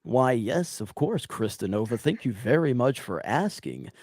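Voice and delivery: polished, overly polite reply; mild proper-gentleman voice; Proper Jeremy. Shown as a demonstration. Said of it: "proper Jeremy came into equation".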